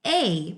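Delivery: "A" said like its letter name ay; long A sound. Shown as a demonstration. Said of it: "which would be the long A sound".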